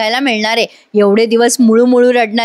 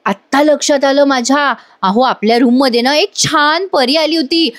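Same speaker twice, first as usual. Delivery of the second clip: getting carried away; 2 semitones higher than usual. Retold or imitated. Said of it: "एवढी रंगात येऊन बोलत असते".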